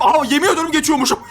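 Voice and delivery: surprised outburst breaking into laughter; laughing in surprise. Real, not acted. Player swearing to friends he didn't know, laughing in surprise. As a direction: laugh helplessly through the words. Finds he can pass the trap.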